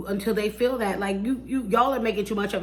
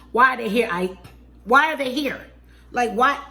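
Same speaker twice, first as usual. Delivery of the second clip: loud, disbelieving why; worked up and fed up; real exasperated outburst; 3 semitones higher, 4 dB louder than usual. Real, not acted. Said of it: "Let me, let me bring my blood pressure down".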